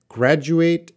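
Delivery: "graduate" said slowly, ending in a full "ate"; pronunciation demo. Shown as a demonstration. Teacher answering a request to pronounce, "graduate" slowly and clearly. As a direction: sound out "graduate" carefully, last syllable like "eight". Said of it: "Could you please pronounce".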